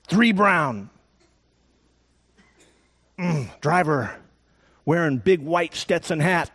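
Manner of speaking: stereotyped Indian brave. Retold or imitated. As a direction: read the tracks off the ground piece by piece. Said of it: "the Indian says".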